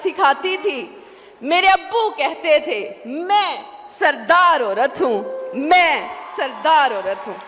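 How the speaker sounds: slow, declamatory sher recital; poetry recitation. Acted. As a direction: recite the verse grandly, drawing out the key words. Recites a couplet on stage. (شعر خوانی کا پُرجوش، ٹھہرا ہوا انداز)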